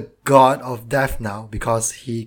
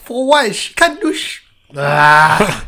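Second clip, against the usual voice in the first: frustrated; 2 semitones higher, 3 dB louder, slower than usual. Real, not acted. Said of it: "I'm so frustrated".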